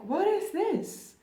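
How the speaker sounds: imitating a worried, panicky inner voice. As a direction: fret aloud as if something is wrong. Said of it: "You're worried".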